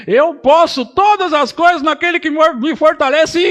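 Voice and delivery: loud and high declaration of faith; proclaiming loudly. Acted. Pastor modelling a believer claiming the verse, loud and high. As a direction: shout the verse as your own. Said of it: "Você deveria começar a crer nisso".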